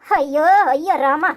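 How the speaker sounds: mock-tragic ayyo, slowed right down; exasperated lament. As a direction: drag out the ayyo like a mother at her wits' end. Mother despairs at daughter.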